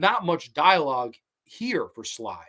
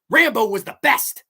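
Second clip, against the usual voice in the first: Crenna hype line; 7 semitones higher, 7 dB louder than usual. Retold or imitated. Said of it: "hype man promo from Richard Crenna".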